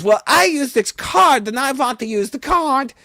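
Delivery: high, loud whiny insistence; Peggy Hill voice. Retold or imitated. Lady insisting to the vampire on her card, high whine. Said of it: "She goes".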